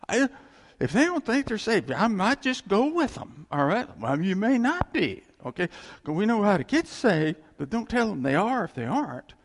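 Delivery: loud, high emphatic preaching; forceful preaching. Real, not acted. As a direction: drive the point home loudly.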